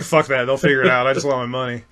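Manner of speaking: chewing gum while talking; words around a wad of gum; talking with gum in mouth. Real, not acted. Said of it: "I got gum in my mouth".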